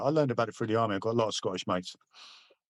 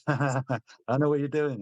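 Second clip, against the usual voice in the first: retold laugh, then higher-pitched words; mock laughing; 4 semitones higher, slower than usual. Irish bloke to suspected soldier, imitated laughing. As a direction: laugh first, then imitate his amused reply. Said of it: "he just started laughing".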